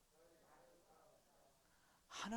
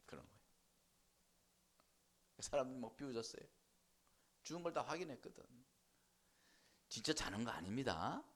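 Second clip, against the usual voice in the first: ordinary talk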